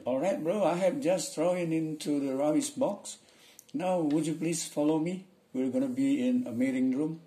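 high, loud-ish dialogue voice; dialogue character. Acted. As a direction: act out the office dialogue, pitched well up. Acts out dialogue lines.

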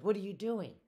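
alarmed demand. A narrator's reading. Man to clerk filing his papers, alarmed demand.

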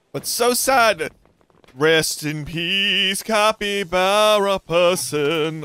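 slow, mock-solemn farewell; mock mourning. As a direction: drag out a fake sad goodbye. Mock eulogy for teammate.

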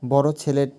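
বড় in বড় ছেলে pressed, ছেলে light; stress on বড়. Shown as a demonstration. Teacher repeating the example, pressing বড় at the start. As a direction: hit বড় firmly. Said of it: "বাক্যের শুরুতে".

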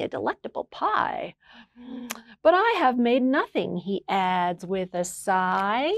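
gentle storybook read-aloud; reading to children. A narrator's reading. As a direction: read it like bedtime story time. Reads a picture book aloud.

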